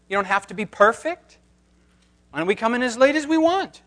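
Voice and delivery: mock cheeky voice, rising, fast at the end; questioning churchgoer. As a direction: play the sly questioner. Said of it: "Paul's answer to the question".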